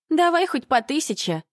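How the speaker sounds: high, loud pushy bargaining; eager haggling. Acted. Dyed blonde haggling with the narrator, pushy and high.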